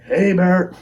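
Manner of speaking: high, loud, drawn-out holler; yelled warning call. Retold or imitated. Hunter warning off unseen eyes in the dark, yelling. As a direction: call out loudly to scare off an animal. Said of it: "yell again".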